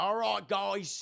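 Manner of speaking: hammed-up Southern drawl; fake Southern accent. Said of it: "with a very fake Southern accent".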